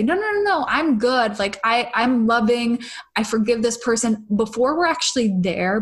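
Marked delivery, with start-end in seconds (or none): 0.0-4.3 mock forced positivity. Voicing someone who suppresses anger, mock cheery denial. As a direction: insist you're fine while pushing it down. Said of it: "shove them down underneath the surface and say".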